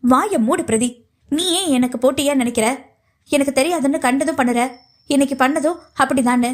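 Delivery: reined-in reproach, measured; controlled anger. Acted. Pavitra confronting her rival over the food poisoning, anger held in check. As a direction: hold the temper down while accusing. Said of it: "கோபத்தை கட்டுப்படுத்தி நிதானமாக கேட்டாள்".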